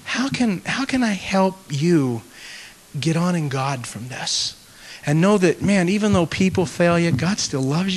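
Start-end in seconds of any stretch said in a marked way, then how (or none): 0.1-4.5 soft, slow, careful question; gentle offer of help. Acted. Pastor asking a hurt person how he can help, soft and gentle. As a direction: ease into it slowly and tenderly.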